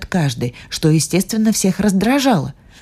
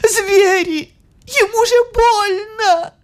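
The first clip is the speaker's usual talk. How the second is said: high, pleading cry; alarmed girl; slower than usual. Acted. Maggie cries that he is hurting, high and alarmed.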